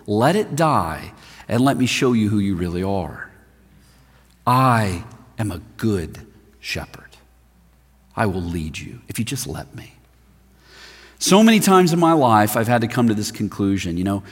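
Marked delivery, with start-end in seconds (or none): 4.5-9.9 soft breathy whisper of a promise; hushed whisper. Acted. Preacher voicing Jesus speaking to the listener, whispered. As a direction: whisper it gently, voicing the shepherd.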